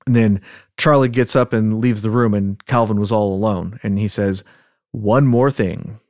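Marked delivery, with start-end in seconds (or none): 4.9-6.0 slow Southern US drawl; Southern accent. Acted. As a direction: draw it out like a Southerner. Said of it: "practice with our Southern accents".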